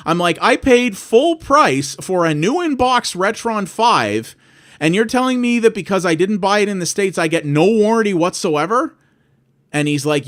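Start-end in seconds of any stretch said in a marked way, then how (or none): 0.4-9.0 indignant protest. Retold or imitated. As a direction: spell out the injustice word by word. Retold angry phone call, customer support.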